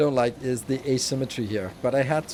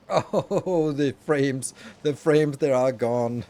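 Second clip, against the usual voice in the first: mock lament; 5 dB louder, much slower than usual. Laments the game's lost frame rate.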